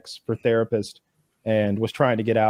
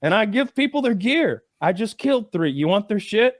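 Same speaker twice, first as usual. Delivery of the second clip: imitating the cheater; 8 semitones higher than usual. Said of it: "he's like".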